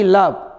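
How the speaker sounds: लव ending cleanly on v; no final vowel. Shown as a demonstration. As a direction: cut लव short after the v. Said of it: "वो नहीं बोलना है".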